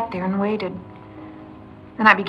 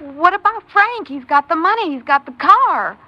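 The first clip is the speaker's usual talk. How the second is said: panicked; 8 semitones higher, 6 dB louder than usual. Acted. Panicked questions about Frank.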